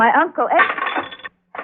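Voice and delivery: slow, faltering halt mid-name; startled falter. Acted. Wife startled by neighbour's question, falters and stops. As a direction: freeze as the name slips out.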